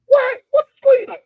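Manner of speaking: high, loud outburst of disbelief; exasperated shout. Real, not acted. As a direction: throw the question up in outrage. Exasperated outburst about politics.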